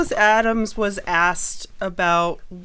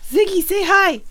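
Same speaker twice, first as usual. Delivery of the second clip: talking to a dog; 12 semitones higher, 6 dB louder than usual. Real, not acted. Coaxing the dog to speak.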